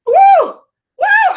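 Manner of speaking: high, loud whooping cheer; fired-up whoop. Real, not acted. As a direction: whoop like a hyped crowd. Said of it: "I'm getting fired up over here".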